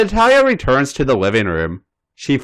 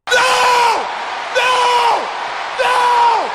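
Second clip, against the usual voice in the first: much higher, shouted no no no; repeated no; much slower than usual. Acted. Natalia protesting the painting idea, high shouted no. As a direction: squeal it out emphatically.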